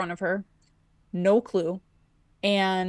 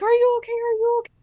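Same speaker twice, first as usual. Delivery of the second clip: high, louder mock-frantic voice of the other driver; hammed-up panic, asking twice; imitating a frantic woman; 4 dB louder, much faster than usual. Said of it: "bawling and, like, freaking out".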